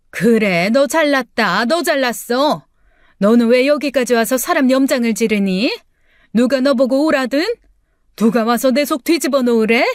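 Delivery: sarcastic, resentful scolding; bitter mother. Acted. Mother berating her daughter in a quarrel, bitter sarcasm. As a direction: throw the sarcasm back at her.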